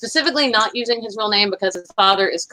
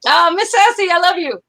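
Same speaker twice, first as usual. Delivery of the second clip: breathy whispered I love you; 10 semitones higher, 4 dB louder than usual. Real, not acted. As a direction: whisper it tenderly to a friend. Sending love to Miss Sassy.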